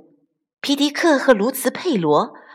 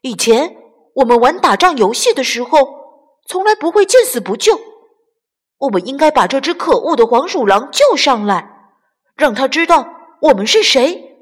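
earnest plea; 4 semitones higher, 5 dB louder, faster than usual. Acted. Carmelito pleading earnestly.

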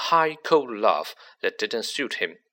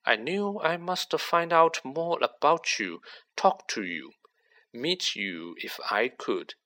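Riddle, cold and smug; 2 semitones higher than usual. Acted. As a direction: let a cold confidence creep in under a light voice. Riddle's voice in the story.

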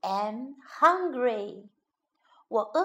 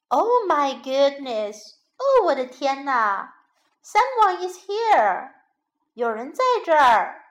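shocked papa bear; 4 dB louder than usual. Acted. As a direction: gasp it out like a startled father bear. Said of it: "他很吃惊".

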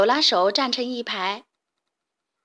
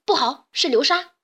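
alarmed shout; 3 semitones higher, 5 dB louder than usual. Acted. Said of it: "小胖墩喊道".

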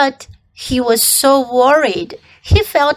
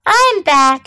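husky voice; 4 semitones higher, 3 dB louder than usual. Acted. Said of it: "he said in a husky voice".

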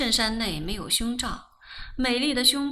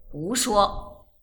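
short, stern dismissal; an elder brother's grave reproof; stern rebuke. A narrator's reading. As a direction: sternly cut off the nonsense. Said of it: "他沉声道".

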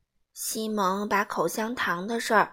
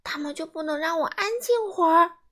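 frustrated shout; 7 semitones higher, 6 dB louder than usual. A narrator's reading. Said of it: "他大喊".

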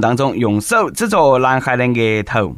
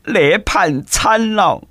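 slow, drawn-out dismayed exclamation; old man's alarmed cry; 5 semitones higher, much slower than usual. Retold or imitated. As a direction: wail it out like a shocked old driver. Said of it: "老人惊呼".

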